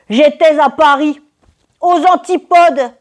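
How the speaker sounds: high, drawn-out theatrical announcement; dramatic revelation. Acted. Traveller revealing she ended up at the antipodes, dramatic. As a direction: unveil it grandly, pitched well up.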